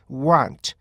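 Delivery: want with an American colour; second variant of want. Shown as a demonstration. Teacher shows the American way to students. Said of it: "미국식은 R을 많이 써요".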